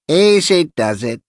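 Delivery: put-on high-pitched old man, like a little cracked bell; small cracked-bell voice. A narrator's reading. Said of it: "in a voice like a small, cracked bell".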